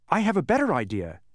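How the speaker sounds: hopeful Milo. A narrator's reading. Milo offers a plan.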